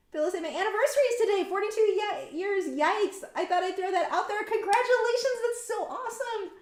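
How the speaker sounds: high, lively, delighted; excited congratulations. Real, not acted. Streamer congratulating a viewer on an anniversary, excited and high. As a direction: cheer for a friend's big news, pitched high.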